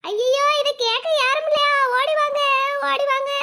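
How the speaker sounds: tearful cry, calling help. Acted. Wife on the road cries out to neighbours, tearful. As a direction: wail for someone to come.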